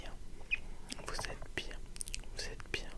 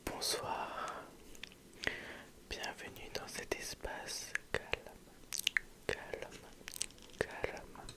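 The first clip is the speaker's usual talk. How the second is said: ASMR whisper. Real, not acted. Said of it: "une toute nouvelle vidéo A S M R".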